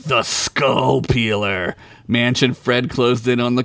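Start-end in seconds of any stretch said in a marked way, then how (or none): 0.1-1.7 slow menacing. Acted.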